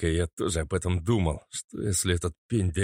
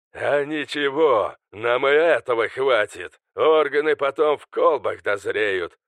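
louder, higher deranged villain; mad scientist; 5 semitones higher, 5 dB louder than usual. Acted. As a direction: gloat like a madman in triumph. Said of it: "Безумно захохотал Алистер Дарк".

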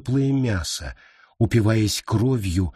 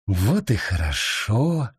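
unseen voice; 2 semitones lower than usual. Acted. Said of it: "сказал некто невидимый".

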